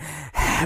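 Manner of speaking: exaggerated breathy exhale; imitated heavy breathing. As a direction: breathe out heavily, mock passion. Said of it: "We're breathing".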